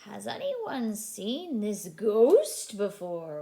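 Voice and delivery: slow, lightly voiced toad; slow mock-spooky toad. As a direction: draw it out like a toad. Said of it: "says Toad".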